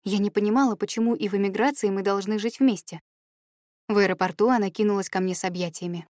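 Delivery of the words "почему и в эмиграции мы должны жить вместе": plain reading voice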